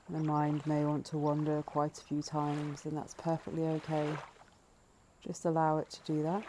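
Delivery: calm, measured breathing-meditation voice, leaving space between phrases; guided meditation. Acted. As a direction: gently lead listeners into noticing the breath.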